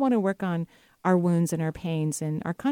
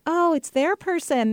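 mild realization; 9 semitones higher, slower than usual. Retold or imitated. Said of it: "And I'm like".

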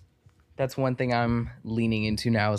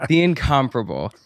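big showy announcer reveal; playful emcee's welcome; mock-formal introduction; 3 dB louder than usual. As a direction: present the guest with grand ceremony. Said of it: "give a formal, formal intro".

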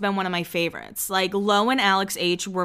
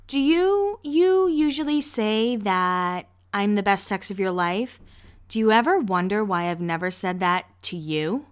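imitating Gigi. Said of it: "and then she's like".

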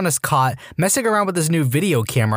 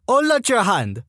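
French-Canadian sergeant; 7 semitones higher than usual. Retold or imitated. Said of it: "female French-Canadian sergeant with this accent".

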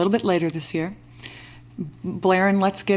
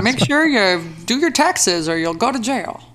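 put-on old-timey gangster voice; 2 semitones higher than usual. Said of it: "old timey gangster voice".

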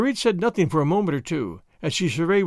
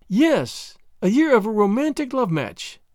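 higher-pitched, emphatic echo; echoing agreement; 5 semitones higher, slower than usual. Acted. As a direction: throw the words back, lilting high. Marguerite echoes his words back.

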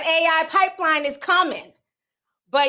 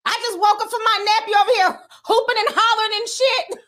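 put-on higher, annoyed woken-up kid; a kid fresh from his nap scolding teacher; grumpy little boy; 8 semitones higher than usual. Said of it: "He wanted all the smoke".

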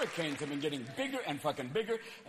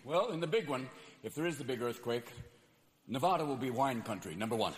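mild low expert; 6 semitones lower than usual. Acted.

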